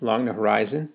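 ordinary delivery, nothing marked

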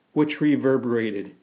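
usual speaking voice

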